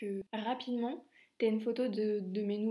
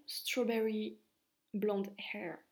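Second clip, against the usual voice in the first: English words in a French accent; much slower than usual. Real, not acted. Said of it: "désolée pour mon accent". (accent français)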